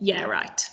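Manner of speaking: short, dry, scoffing, disbelieving sarcasm. Showing how a diary line sounds with dramatic effect: sarcastic. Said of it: "a short sarcastic sentence for dramatic effect".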